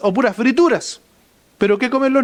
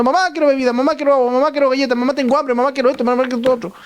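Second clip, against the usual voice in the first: mock children yelling; 4 semitones higher, faster than usual. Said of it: "empiezan gritando y diciendo".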